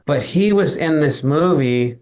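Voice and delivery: ordinary delivery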